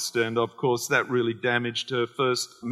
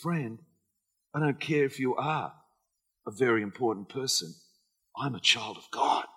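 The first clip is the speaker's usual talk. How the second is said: calm firm reply; 4 semitones lower, 8 dB quieter than usual. Retold or imitated. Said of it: "and say".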